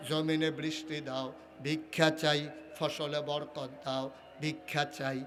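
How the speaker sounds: low, measured rhythmic supplication; humble begging litany. Acted. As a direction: plead item by item in a low chant.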